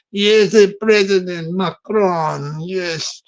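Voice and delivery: badly faked French accent, sounding Mexican; French accent gone Mexican. French president on farmers, accent slipping into Mexican. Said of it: "a sort of Mexican voice".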